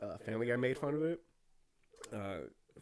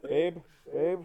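mock calling out; 4 dB louder than usual. Playing lost partner.

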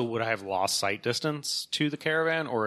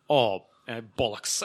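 mild mock Scottish curse; imitated Scottish accent. Scot fed up with an elevator, lightly done Scottish accent. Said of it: "These two, these two Scottish guys".

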